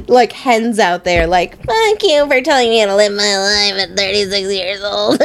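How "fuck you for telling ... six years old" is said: lightly voiced old crone, cranky. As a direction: croak it like a grumpy old crone. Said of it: "It's like your old crone voice".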